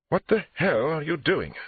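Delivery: loud, high, drawn-out indignation; outraged. Acted. Suspect pulling away from the detective, outraged. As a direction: protest in slow, loud outrage.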